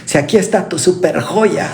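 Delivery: half-laughing, playful boast to God; laughing mock plea. Believer jokingly reminding God of her worth, laughing. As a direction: tease God about being his jewel. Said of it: "me gusta mucho usar esta expresión".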